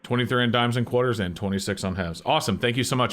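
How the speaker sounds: disguised voice through a voice changer; masked caller voice. Real, not acted. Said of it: "I am using a voice changer".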